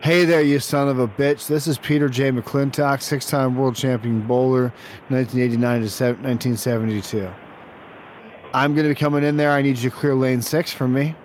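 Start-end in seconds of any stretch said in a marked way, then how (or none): 0.0-9.5 lightly voiced boastful bowling champ; full-voiced champion demanding service; self-announced bowling champion. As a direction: announce yourself like a washed-up champion bowler.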